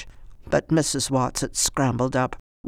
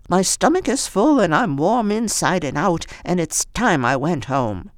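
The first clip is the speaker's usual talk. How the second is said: put-on old woman voice; 5 semitones higher, 3 dB louder than usual.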